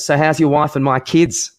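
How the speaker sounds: lightly acted needling question; Rod Marsh. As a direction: ask it as a pointed taunt. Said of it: "Rod Marsh to Botham".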